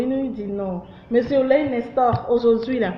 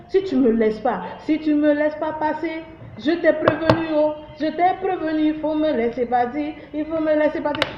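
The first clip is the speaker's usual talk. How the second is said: a higher, lightly voiced frog making threats; angry talking frog; 4 semitones higher than usual. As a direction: play the cheeky frog warning the hunter. (grenouille menaçante, voix un peu plus aiguë)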